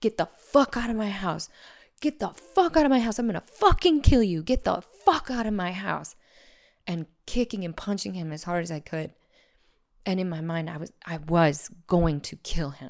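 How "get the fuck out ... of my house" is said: all-out, raised, furious screaming. Retelling fighting off an attacker with a knife: retelling screaming at an intruder. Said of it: "kicking him and screaming at him".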